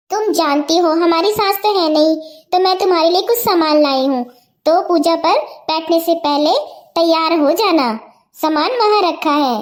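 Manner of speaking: a calmer elder sister voice. Acted. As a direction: speak gently as the caring elder. Elder sister explains the gifts. (बड़ी बहन का शांत स्वर)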